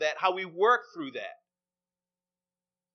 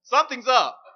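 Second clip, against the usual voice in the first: emphatic repeat; 4 semitones higher, 6 dB louder than usual. Shown as a demonstration. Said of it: "repeats the wife's line louder".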